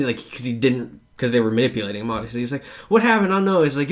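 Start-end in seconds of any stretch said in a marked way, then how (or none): 2.9-3.6 high, confused, alarmed quote; mock bewilderment. Boy rejected by the wizard, high mock bewilderment. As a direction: ask it high and thrown. Acting out confused boy's dismay.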